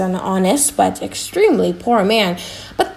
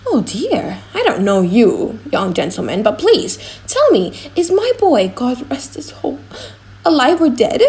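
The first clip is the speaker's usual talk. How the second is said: put-on higher, pleading old man's voice; a worried old man begging to know if his son lives; anxious old father; 3 semitones higher than usual. Old father begs for news.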